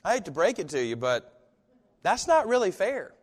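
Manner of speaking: rising protest, pitch climbing; an aggrieved churchgoer pleading with Jesus; complaining to Jesus. Retold or imitated. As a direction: whine that it's not fair. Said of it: "so bold as to say".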